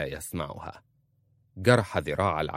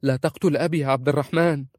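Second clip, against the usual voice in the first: fast, higher, louder plea; pleading; 7 semitones higher, 7 dB louder, faster than usual. A narrator's reading. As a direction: beg him to spare your father. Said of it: "قالت في رجاء".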